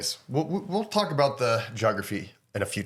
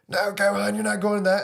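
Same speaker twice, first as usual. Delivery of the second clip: Chi-Chi; 8 semitones higher than usual. Retold or imitated. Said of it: "She says".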